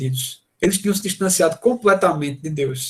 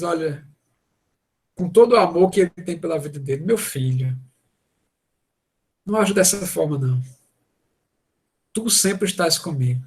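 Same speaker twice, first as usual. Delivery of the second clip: loving father. Retold or imitated. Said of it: "aquele amor de pai".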